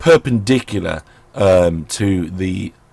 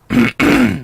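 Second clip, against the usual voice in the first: loud throat clear; 7 dB louder than usual. Real, not acted. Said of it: "I have got a sore throat".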